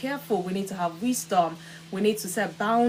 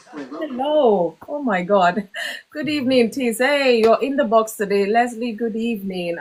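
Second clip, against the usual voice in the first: excited greeting; 2 semitones higher, 8 dB louder than usual. Real, not acted. Greeting viewer joining live.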